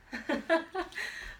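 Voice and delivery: airless little giggle; quick silent laugh; breathy laugh. Real, not acted. Laughs at own accessories.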